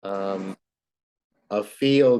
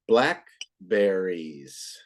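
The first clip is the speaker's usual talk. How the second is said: slow syllable demo; 2 semitones lower, much slower than usual. Shown as a demonstration. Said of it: "Three syllables".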